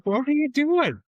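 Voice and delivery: high, loud disbelieving challenge; loud exasperated question; incredulous. Retold or imitated. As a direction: demand to know what he's up to. Retold confrontation at gym rack.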